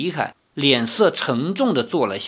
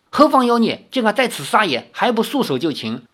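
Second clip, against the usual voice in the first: stern challenge; 7 semitones higher than usual. A narrator's reading. Hunter challenges the demon, stern and commanding.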